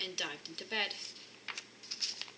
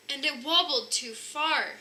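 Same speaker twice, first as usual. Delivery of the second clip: cub's little voice; 5 semitones higher, 5 dB louder than usual. A narrator's reading. Cub voice explaining.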